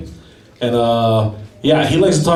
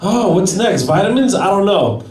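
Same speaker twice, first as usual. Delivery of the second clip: slow, mock-grateful and higher; sarcastic thanks; 4 semitones higher, slower than usual. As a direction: drip fake gratitude at the watch. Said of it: "I'm like".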